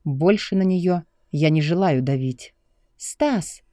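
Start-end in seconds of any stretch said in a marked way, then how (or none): 3.0-3.6 sharp high cry of his name; startled exclamation. A narrator's reading. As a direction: she cries out in shock, pitched up. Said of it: "воскликнула она".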